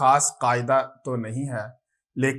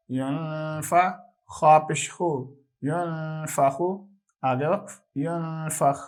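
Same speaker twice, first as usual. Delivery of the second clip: measured sing-song spelling recitation; a steady spelling chant for children; qaida spelling drill. Acted. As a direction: spell each syllable out steadily like a class drill. Teacher resumes spelling drill.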